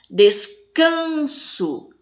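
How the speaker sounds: "Descanso" slowly, CAN high and long; drawn-out stress on CAN in "Descanso"; tonic syllable stressed. Shown as a demonstration. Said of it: "fala com mais intensidade".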